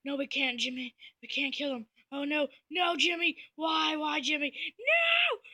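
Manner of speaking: despairing troop. Retold or imitated. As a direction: wail it as your friend falls.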